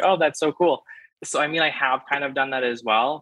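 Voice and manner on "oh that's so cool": excited reaction. Retold or imitated. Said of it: "everyone's always like".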